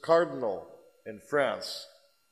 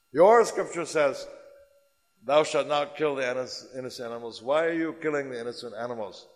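forceful challenge; 2 semitones higher, 5 dB louder than usual. Retold or imitated. Guru's challenge repeated.

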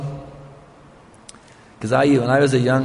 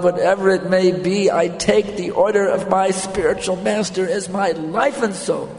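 raised, sustained pitch in a devoted pledge; earnest vow; 6 semitones higher than usual. Acted. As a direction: declare total surrender to the teacher, higher. Acted vow of devoted disciple.

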